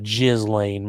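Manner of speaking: slow Ghislaine, said "ZHIZ-lane"; chosen name pronunciation. Shown as a demonstration. Streamer confirming the chosen name, Ghislaine slowly said "ZHIZ-lane". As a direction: draw out Ghislaine with a soft first sound and a z. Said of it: "We'll go with that".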